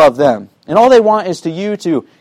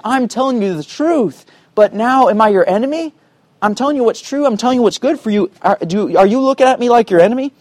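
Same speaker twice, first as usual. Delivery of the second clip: higher-pitched, pleading questions; begging, urging; 4 semitones higher than usual. Retold or imitated. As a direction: plead with them as an upset Paul. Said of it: "It's really kind of a begging, urging tone".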